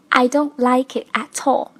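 "at all" said as a-tall within the sentence; linked in a sentence. Shown as a demonstration. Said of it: "做一个连读的处理".

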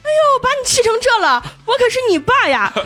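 a whiny mocking take on the nagging dad; mock father's drone. Narrator mimics father-in-law claiming his authority, mocking. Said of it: "他爸说".

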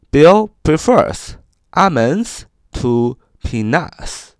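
careful slow read of the sentence; slow example sentence. Shown as a demonstration. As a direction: read it slowly, word by word. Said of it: "我们造个句子说". (慢速朗读例句)

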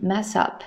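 "mess up" run together as one word; linked pronunciation. Shown as a demonstration. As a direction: link the final s of "mess" into "up". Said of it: "注意到它的连读".

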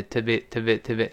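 "to be" glossed over with a weak vowel in "to"; quick reduced "to be". Shown as a demonstration. Teacher showing how "to be" gets swallowed, quick and reduced. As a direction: run "to be" together as a quick, unstressed "tuh-bee". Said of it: "一带儿过".

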